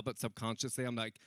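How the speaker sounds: ordinary delivery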